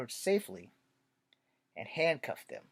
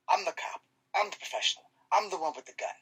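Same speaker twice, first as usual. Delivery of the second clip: higher-pitched assertion of authority; insistent cop; 4 semitones higher than usual. Acted. Cop asserting his authority to a bystander, insistent. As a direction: pull rank, pitch raised.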